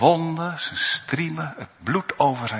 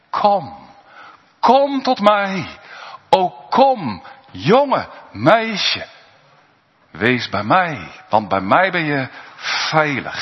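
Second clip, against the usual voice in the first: the Lord calling; 4 semitones higher, 3 dB louder, slower than usual. Acted. Voicing the Lord calling a child.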